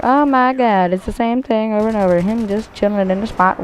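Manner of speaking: high-pitched, hammed-up whine; mock bored complaint. Imitating viewers sick of the same thing, mock complaint.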